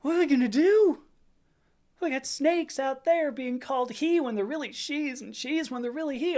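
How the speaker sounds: hammed-up panicking congressman, high and loud outburst; Keith Self. Comic mocking a congressman alarmed about snakes, high mock panic. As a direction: wail it in mock outrage, pitched high. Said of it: "Keith Self, sitting there going".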